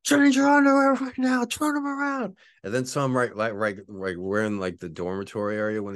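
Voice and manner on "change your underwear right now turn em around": high, loud, hammed-up barked order; mock sergeant screaming at recruit; drill sergeant yell. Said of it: "he's yelling at me".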